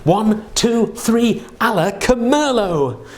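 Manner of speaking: big showy magic incantation; kids party magician. Pretend. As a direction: cast the spell like a stage magician. Magic words countdown again.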